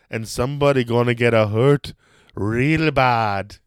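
deliberate, heavy, fatherly delivery. Imagining a wrestling opponent and quoting him: imitating Russell Peters' dad. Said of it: "Russell Peters' dad. And he's like".

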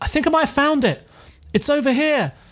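very high, shrill shouting. Narrating players searching an exhibit, a voice calls out: Lizzie shouting. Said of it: "you hear Lizzie shouting like".

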